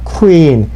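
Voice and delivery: queen slow, k-oo-een stretched; long queen. Shown as a demonstration. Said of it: "더 길게 발음합니다". (queen을 더 길게 크우-인)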